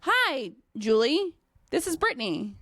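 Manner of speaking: high friendly "Hi", then an easy pause; personable greeting. Shown as a demonstration. Trainer showing clients the right call, friendly greeting. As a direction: keep it simple and friendly. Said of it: "We call and we say".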